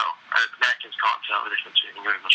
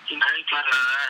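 higher, hammed-up English accent; put-on English accent; 5 semitones higher than usual. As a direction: lightly lay the English accent on. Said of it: "really kind of putting it on".

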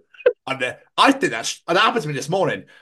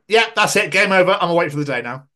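resigned high mock; 6 semitones higher, 5 dB louder than usual. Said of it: "I'm like".

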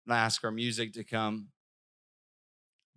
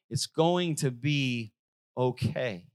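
God's calm promise. Retold or imitated. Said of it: "and you hear God say".

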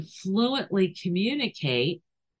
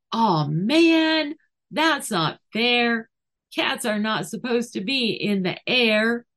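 high whiny dog complaint, much higher; voicing the dog; 6 semitones higher, 3 dB louder than usual. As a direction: pout like a dog who lost. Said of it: "the dog is likely to go".

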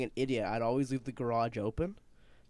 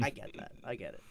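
meek reply; 4 semitones lower, 7 dB quieter than usual. Retold or imitated. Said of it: "And I'm like".

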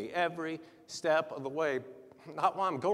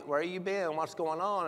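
higher, lightly imitated friendly check-in; beseeching; 5 semitones higher than usual. Pastor imitating a check-in on absent member, gently beseeching. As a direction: ask after them kindly, without scolding. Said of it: "He's beseeching you".

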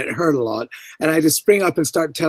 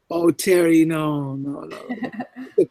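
team's dismayed protest; much slower than usual. Retold or imitated. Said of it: "all his team around were going".

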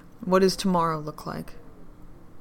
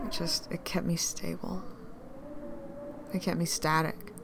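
whisper; 7 dB quieter than usual. Acted.

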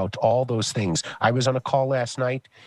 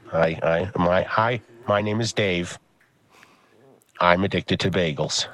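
support group introduction; 5 semitones lower than usual. Pretend. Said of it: "So you go, "Hi, Dave".

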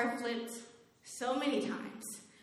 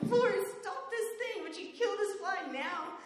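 frantic prayer; 9 semitones higher than usual. Retold or imitated. Praying while swatting fly.

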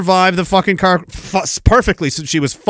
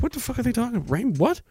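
put-on confused teen voice; 7 semitones higher, 9 dB quieter, faster than usual. Teen self confused in kitchen.

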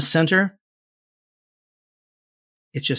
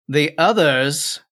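put-on old hag; 3 semitones higher, 3 dB louder, much slower than usual. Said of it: "the older one says".

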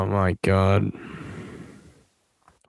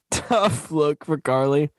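laughing whisper; 4 semitones higher, slower than usual. Real, not acted. Laughs at the scene.

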